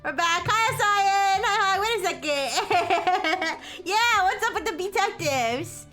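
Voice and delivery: high, bright cute greeting voice; cute anime streamer. Real, not acted. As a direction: squeal hellos to the raiders. Greeting raiders again.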